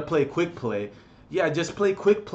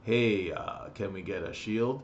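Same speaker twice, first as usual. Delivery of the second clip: timid request; 5 semitones lower, 8 dB quieter than usual. Retold or imitated. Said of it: "I was like".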